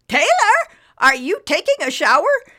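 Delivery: loud, high mother calling out; calling through door. Acted. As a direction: call through the closed door.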